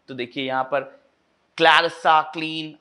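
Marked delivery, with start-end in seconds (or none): 1.6-2.8 "क्लैरिसा, क्लीन" with a hard initial K; hard K sound. Shown as a demonstration. Teacher pointing out hard sounds, "क्लैरिसा, क्लीन" with a hard K. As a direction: strike the opening K in "क्लैरिसा, क्लीन". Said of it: "hard sound लिया गया है".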